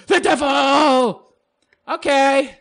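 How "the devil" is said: slow, higher, louder devil intonation; mock devil. Vlogger savoring being called the devil, hammed-up devil. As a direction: draw it out theatrically.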